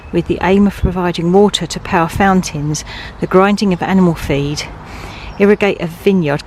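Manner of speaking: breathless from walking; panting while reading; out of breath. Real, not acted. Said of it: "God, I'm out of breath".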